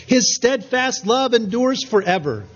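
lightly voiced congregational response; congregation calling out. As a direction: answer the leader like the whole congregation. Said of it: "the congregation yelling out".

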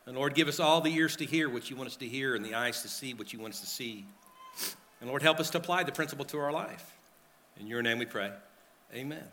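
soft, earnest prayer at the pulpit. Acted. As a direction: pray quietly and sincerely into the mic. Pastor leads congregation in prayer.

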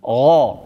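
"Ra" said dark and full; heavy letter. Shown as a demonstration. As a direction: give "Ra" a thick, heavy sound. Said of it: "zware letter".

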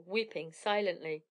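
ordinary delivery

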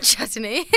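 chutney in three syllables, chut-uh-nee; odd pronunciation. Retold or imitated. Amused friend echoing the sitcom character, mispronouncing chutney. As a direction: echo chutney with an extra middle vowel. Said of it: "he calls chutney chutney".

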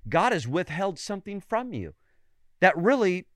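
a hint of a sly deceiver; lightly voiced tempter. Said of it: "He sowed the seed that".

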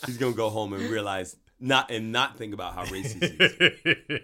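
chuckling through a sly plan; laughing mock scheme. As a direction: say it like a joking schemer.

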